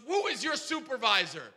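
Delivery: mild mock yell; retold yelling. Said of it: "he's yelling at me".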